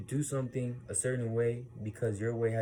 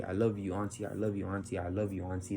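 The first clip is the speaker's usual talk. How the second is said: soothing repetition; 4 semitones lower, 4 dB quieter than usual. Retold or imitated. Soothing an auntie's outburst.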